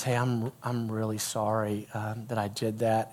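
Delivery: soft, low, gentle apology; quietly contrite, kept low; retold sincere apology. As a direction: voice a boy humbly apologizing. Boy's retold apology to the girl.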